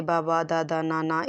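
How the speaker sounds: lightly imitated baby babble in doubled syllables; hint at a baby's repetitive babbling; even, lightly demonstrated babble; babbling baby imitation. Shown as a demonstration. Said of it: "इस तरह से बोलना start करते हैं".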